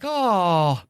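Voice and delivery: high cooing sympathy, hammed up; drawn-out "aww" of pretend sorrow; mock pity. Viewer watching cheetah get snatched, mock pitying.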